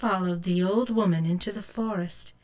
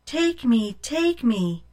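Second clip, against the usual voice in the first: small eggs calling out, a bit higher; crying eggs; 3 semitones higher, 3 dB louder than usual. Acted. Small plain eggs calling to Rose, higher plea. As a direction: plead like tiny eggs. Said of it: "plain eggs cried".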